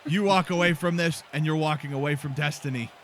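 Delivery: a lightly done, bad Irish brogue for Sheamus; bad Irish accent. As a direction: keep the clumsy Irish lilt, barely shifted. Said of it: "This is a terrible accent".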